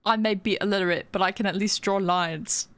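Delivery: put-on slips into a quick British accent; offhand British lilt. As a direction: say it like a Brit, briskly. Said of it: "I became British there for a second".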